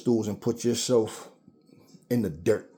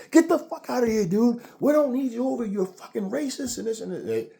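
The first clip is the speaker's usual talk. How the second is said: hyper yelling; 13 semitones higher than usual. Retold or imitated. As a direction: shriek it at him, fed up. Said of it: "they start getting all hyper".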